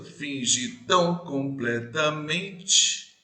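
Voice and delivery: "Finge tão completamente" very slow, "tão" leaned on and rising; stress on tão. Shown as a demonstration. Teacher to class, scanning the verse slowly. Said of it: "terceira sílaba".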